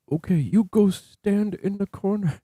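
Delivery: high, slow scolding voice; slow falsetto mock reprimand. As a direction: send him to the corner like a naughty child. Voicing a scolding reply.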